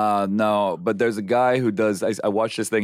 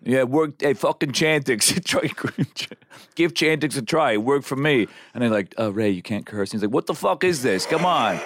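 Ray Liotta impression; 4 semitones higher than usual. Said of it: "he plays Ray Liotta".

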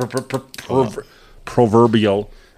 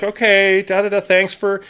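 imitated caller; 5 semitones higher than usual. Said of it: "she's like".

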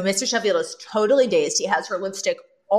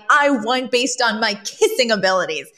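mildly outraged retort; imitating an affronted woman; lightly played indignant boast; mock indignation; 3 semitones higher than usual. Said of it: "Ran is outraged and indignant".

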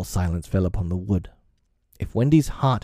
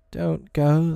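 calling in pity; 8 semitones higher than usual. A narrator's reading. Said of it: "they called in pity".

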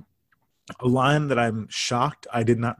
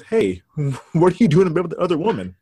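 quick, louder comedian punchline; higher, hurried joke delivery; Rodney Dangerfield; 4 semitones higher, 5 dB louder, faster than usual. Acted. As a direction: lightly imitate a stand-up's one-liner. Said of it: "that's a pretty good Rodney".

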